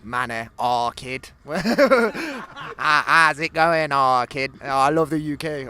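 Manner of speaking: a light Birmingham accent put on; mild Brummie accent, playful; lightly done Birmingham accent for the camera. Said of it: "Could do the Birmingham one".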